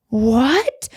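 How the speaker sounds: whispered disbelieving What?; stunned whisper. Retold or imitated. Stunned by the therapist's words, whispered what. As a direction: breathe out the question in shock.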